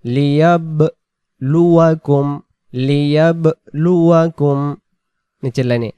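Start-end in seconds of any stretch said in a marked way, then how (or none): 0.0-4.8 লিয়াবলুয়াকুম with the ব bounced; qalqala on ba. Shown as a demonstration. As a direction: give the sakin ব an echo bounce. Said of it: "সাকিন থাকলে কলকলা করতে হয়।". (ব-তে কলকলা)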